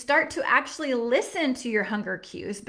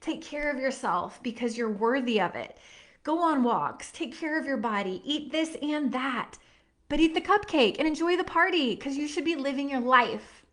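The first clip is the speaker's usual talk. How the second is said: tender reassurance. Retold or imitated. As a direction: speak gently as if cupping a face. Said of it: "I'm cupping your face saying".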